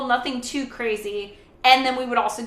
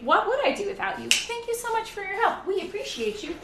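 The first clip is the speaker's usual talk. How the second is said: gushing thanks; 8 semitones higher, 3 dB quieter than usual. Real, not acted.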